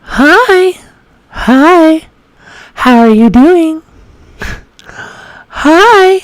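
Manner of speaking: very high feminine practice voice. Shown as a demonstration. Practising greetings for voice training, high feminine voice. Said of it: "It's really high feminine voice".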